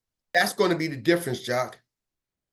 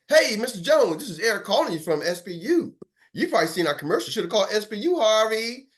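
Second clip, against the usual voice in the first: confident pitch; 4 semitones higher than usual. Shown as a demonstration. Confident sales call demo.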